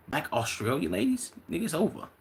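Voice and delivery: can't believe the good news, go up; excited disbelief. Real, not acted. Hyped reaction to chat news.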